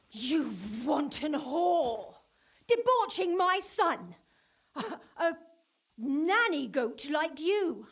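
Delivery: angry scolding. Acted. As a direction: tear into her with scorn. Mother berates the woman.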